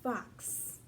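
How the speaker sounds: fox whispered, only the breath, with a crisp ks at the end; whispered fox demo. Shown as a demonstration. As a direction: breathe out fox for the kids to repeat. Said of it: "Say it with me".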